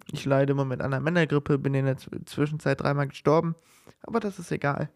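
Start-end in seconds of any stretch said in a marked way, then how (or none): 0.0-3.5 sick voice. Real, not acted. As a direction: voice worn down by a cold. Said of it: "Wie ihr vielleicht hört".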